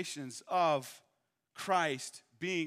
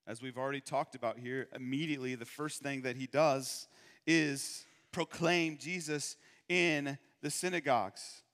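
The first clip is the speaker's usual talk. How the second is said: ordinary talk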